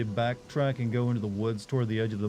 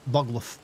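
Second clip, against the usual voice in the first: animal noise. Pretend. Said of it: "best animal impression I can do".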